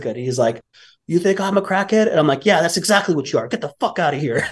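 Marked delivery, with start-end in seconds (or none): 1.1-2.1 high-pitched mock indignation; incredulous, pitched-up imitation; offended drug addict. Addict retorting in quarrel. 2.5-4.5 mildly heated comeback, pitch raised; a touch of temper, not shouted; retold angry retort. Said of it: "I'm so angry".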